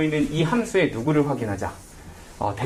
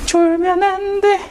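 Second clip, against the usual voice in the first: much higher, louder, slow "no dozing"; playful wake-up call; 5 dB louder, much slower than usual. Real, not acted. Teacher rousing drowsy students, higher and louder. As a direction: jolt the sleepy class awake. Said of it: "내가 처음부터 너무 텐션 낮게 했나?".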